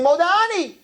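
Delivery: high, ringing morning call; exclaimed high and bright. Shown as a demonstration. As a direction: cry it out joyfully on waking. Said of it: "you're supposed to say".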